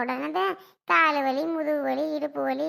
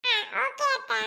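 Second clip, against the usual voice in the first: put-on young girl voice; 7 semitones higher than usual. Girl answers her aunt.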